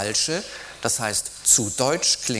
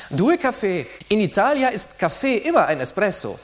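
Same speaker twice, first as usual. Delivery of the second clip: Italian waiter; 9 semitones higher, 5 dB louder than usual. Acted. Waiter explains Italian coffee.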